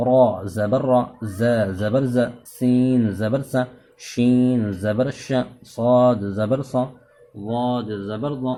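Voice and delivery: slow, loud chanted spelling of each letter; measured sing-song spelling drill, loudest through the middle letters; recitation drill. Shown as a demonstration. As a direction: call out each letter and its zabar sound like a teacher leading the class. Leads the zabar spelling drill.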